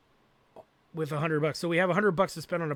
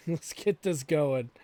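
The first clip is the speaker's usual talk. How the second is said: slow, laughing through the words; slower than usual. Real, not acted. Streamer laughing at himself while building, laughing. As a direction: chuckle at own frustration.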